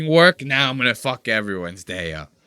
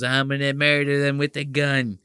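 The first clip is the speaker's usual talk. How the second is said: mock Nick threat. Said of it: "He goes".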